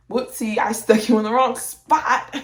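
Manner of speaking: mock nurse. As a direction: pretend nurse owning up to a goof, teasing. Mocking the nurse's mistake.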